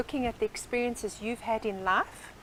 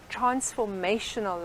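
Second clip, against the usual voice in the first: "transformational" drawn out slowly, syllable by syllable; slow down and lean on "transformational"; emphasis on transformational. Real, not acted. Coach explaining her training to the host, "transformational" slowly emphasized. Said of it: "I emphasize that word".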